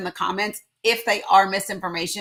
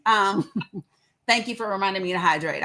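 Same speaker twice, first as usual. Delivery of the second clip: ordinary delivery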